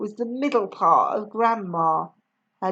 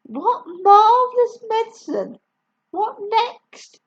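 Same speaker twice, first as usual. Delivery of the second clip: raised, eager exclamation; bright exclaimed title; wonderstruck; 9 semitones higher, 4 dB louder than usual. A narrator's reading. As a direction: announce it with delight. Excited story title.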